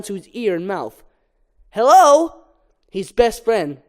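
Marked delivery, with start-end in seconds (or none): 1.7-2.4 Barry answering. Acted.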